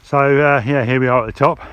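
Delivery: breathless at the top of the climb; catching breath between words. Real, not acted. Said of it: "I'm a bit out of breath now".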